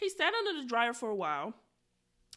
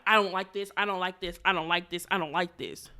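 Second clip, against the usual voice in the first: mildly mocking, insistent client; imitated disapproval; 2 semitones lower than usual. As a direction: repeat it like a stubborn complaint. Mother's rejection, acted.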